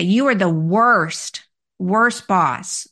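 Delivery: slow, emphatic mock accusation; stretched-out complaint, retold. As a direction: imitate someone pronouncing a blunt verdict. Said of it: "I had someone say".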